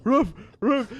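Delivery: high loud yappy barks; dog barking. Retold or imitated. Retelling the dog ad again, high yappy barks. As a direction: bark like the TV dog. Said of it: "the dog barking again".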